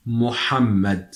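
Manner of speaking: MUHAMMAD said slowly with the Arabic ha clear. Shown as a demonstration. Teacher repeats it for practice, clear Arabic ha. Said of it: "the pronunciation of this difficult letter".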